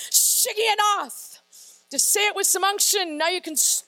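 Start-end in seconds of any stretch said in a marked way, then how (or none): 0.1-1.4 slow, drawn-out Shigionoth said like you mean it. Shown as a demonstration. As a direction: lean into Shigionoth slowly, with conviction. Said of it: "say it like you mean it".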